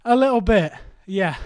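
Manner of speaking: a little breathless; slightly winded after exercise; out of breath. Real, not acted. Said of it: "Are you out of breath?".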